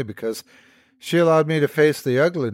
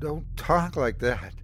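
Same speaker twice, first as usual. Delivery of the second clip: shaky; 4 semitones higher, 3 dB quieter, slower than usual. Acted. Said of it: "my words shaky".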